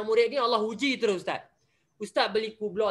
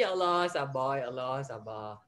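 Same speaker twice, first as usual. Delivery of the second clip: near-tears whispered prayer; 9 semitones lower, 6 dB quieter than usual. Retold or imitated. Teacher shows himself near tears praying for patience. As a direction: hold back tears while pleading for patience. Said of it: "Sabar sampai nak menangis ni".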